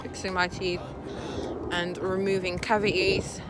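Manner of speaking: slurred by a numb lip; numb from the dentist. Real, not acted. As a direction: talk through a numb mouth. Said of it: "Excuse me if I can't talk properly".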